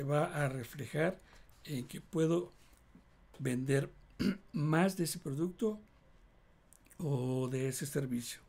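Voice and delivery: speaking with a dry throat and mouth. Real, not acted. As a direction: talk through a parched, dry throat. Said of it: "me está resecando mucho la garganta, la boca".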